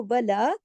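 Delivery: वला with the ला drawn out; long A. Shown as a demonstration. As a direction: stretch the आ at the end of वला. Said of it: "लाम के साथ अलिफ है". (वला, अलिफ खींचकर)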